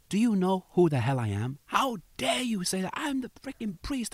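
high-pitched indignation, held back in volume; retold angry priest. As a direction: imitate an indignant priest, pitch rising sharply. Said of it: "He got so angry".

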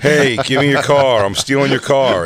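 loud mock Boston tough girl; hammed-up Boston car thief; Boston accent. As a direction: bark it in a thick Boston accent. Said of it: "a black girl with a Boston accent".

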